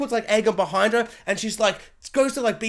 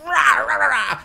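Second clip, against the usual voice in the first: mock dragon roar; 5 semitones higher, 5 dB louder, slower than usual. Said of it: "she lands and she's like".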